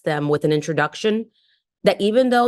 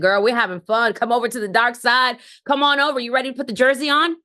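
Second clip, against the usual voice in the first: excited invitation; 4 semitones higher than usual. Retold or imitated. Retold recruiting call to friend.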